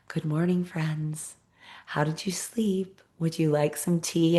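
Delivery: a hint of a Spanish accent, tender and hushed; sweet Spanish accent. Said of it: "in his sweet little Spanish accent".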